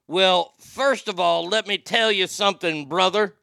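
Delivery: hint of a pro wrestler; wrestling promo voice. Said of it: "cut a wrestling promo".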